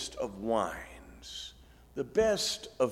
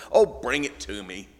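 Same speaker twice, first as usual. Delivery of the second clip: a patient teacher running out of patience; frustrated Jesus; 6 dB louder than usual. Retold or imitated. Jesus answers the disciples' fish count: mildly exasperated. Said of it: "you can almost hear the frustration in his voice".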